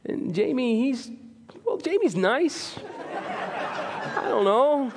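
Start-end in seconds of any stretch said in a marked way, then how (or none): 1.6-4.9 teasing through real laughter, slow and higher; laughing. Real, not acted. Pastor teasing colleague Jamie, laughing. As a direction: chuckle while ribbing a friend.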